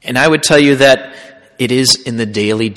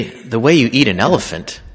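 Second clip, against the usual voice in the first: quiet reveal; 2 semitones lower, 5 dB quieter than usual. Retold or imitated. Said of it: "And I finally say".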